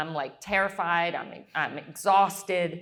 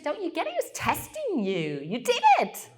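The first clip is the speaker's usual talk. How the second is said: higher, excited motherly reassurance; a lightly voiced mom cheering; 9 semitones higher than usual. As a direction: mom proud and thrilled. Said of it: "And she said".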